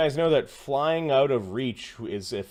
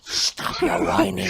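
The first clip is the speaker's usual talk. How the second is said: raised, drawn-out mock telling-off; hammed-up scolding; 7 semitones higher, 3 dB louder than usual. Player cutting off the complaining character, mock-angry scolding.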